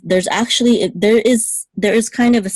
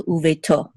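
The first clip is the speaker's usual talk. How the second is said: uveto stressed on the last syllable, to; stress on final to. Shown as a demonstration. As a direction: land the accent on "to" in uveto. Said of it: "the accent is on to".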